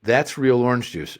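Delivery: imitated mother with South Boston accent; horrible Boston accent. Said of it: "This is with the horrible accent".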